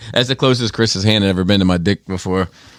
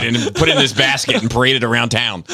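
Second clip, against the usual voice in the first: high mocking call of a crowd; a pitched-up mock executioner summoning Gandhi; 5 semitones higher than usual. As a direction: ham it up as a jeering mob, pitched up. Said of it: "They'd be like".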